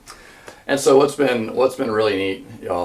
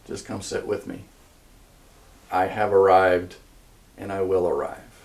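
gentle voice of love; 3 semitones lower than usual. Acted. King comforting those who are hurting, gentle and unhurried. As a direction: speak it gently, leaving space after each phrase. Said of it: "maybe the voice of love says".

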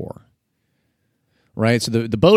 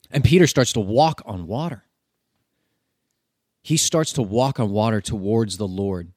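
usual speaking voice

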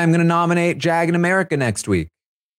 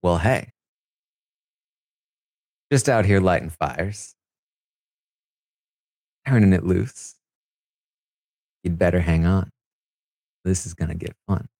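mimicking Cameron; 7 semitones lower than usual. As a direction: play him cool and smug, voice dropped low. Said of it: "I'm gonna try to mimic what he does".

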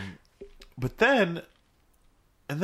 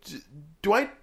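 hesitant question; 4 semitones higher than usual. Retold or imitated. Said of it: "And he's like".

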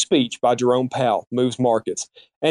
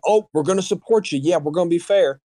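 mock promise; 3 semitones higher than usual. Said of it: "Why are they saying".

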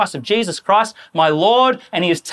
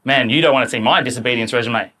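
lower repeat; 8 semitones lower than usual. Shown as a demonstration. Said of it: "repeat, lower".

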